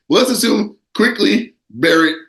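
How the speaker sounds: slow, halting, cracking up near the end; real stifled laughter creeping in; can't keep straight face. Real, not acted. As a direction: try to say it seriously, then break into a laugh. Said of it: "say it with a straight face".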